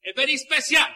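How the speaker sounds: showman host with Latin flair; lucha libre announcer. Acted. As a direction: welcome the crowd like a ringside emcee. Host greets audience in Spanish.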